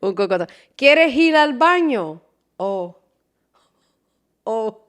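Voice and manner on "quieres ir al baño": mock menacing. Mom's threatening question.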